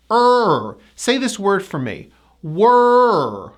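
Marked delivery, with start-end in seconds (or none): 0.1-0.8 "Er" held tight, rising then falling. Shown as a demonstration. Teacher demonstrates the vowel, "Er" gliding up, down. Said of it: "Notice I go up, down". 2.4-3.5 "Were" drawn out, up then down; tight er vowel. Shown as a demonstration. Teacher models first part of the word, long "Were". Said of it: "so you say were".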